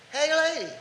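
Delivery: high, loud parrot greeting; squawking parrot. Acted. Parrot calls the lady after being scolded, high loud squawk. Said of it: "The parrot says".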